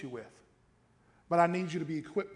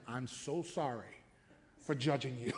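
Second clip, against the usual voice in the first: quieter, slow, sincere; soft apology; 3 semitones lower than usual. Retold or imitated. Apologizing to late pastor, softly. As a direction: say sorry gently. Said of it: "talking to him".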